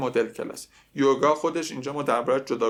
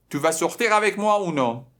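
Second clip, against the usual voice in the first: higher and louder, slow insistent demand; angry boy; 4 semitones higher, 4 dB louder, slower than usual. Retold or imitated. Teacher voices the boy demanding a date. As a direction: press her for an answer, irritated. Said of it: "قاطی کرده پسر".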